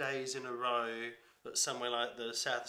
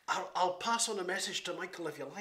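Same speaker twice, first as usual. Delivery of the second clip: amused character voice; 6 semitones higher than usual. Retold or imitated. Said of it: "Or like".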